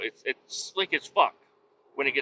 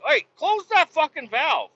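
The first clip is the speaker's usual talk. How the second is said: high, raised shout across the truck; retold call; 12 semitones higher, 3 dB louder than usual. Trucker calling across to workers to close the valve, high shout. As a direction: call out over the noise.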